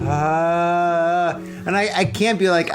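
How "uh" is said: long, level held groan; acted groan of discomfort, held steady; drawn-out groan. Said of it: "And I'm just like".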